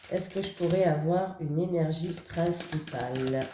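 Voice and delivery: stuffy nose, nasal blockage; blocked nose. Real, not acted. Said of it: "je parle un petit peu avec le nez".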